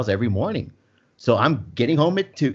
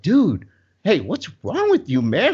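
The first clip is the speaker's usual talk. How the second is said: friends' mock alarm; 6 semitones higher, slower than usual. Friends confront him over his laughing, a mildly raised, higher alarmed call. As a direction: play the buddies calling out in a raised voice. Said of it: "My friends are like".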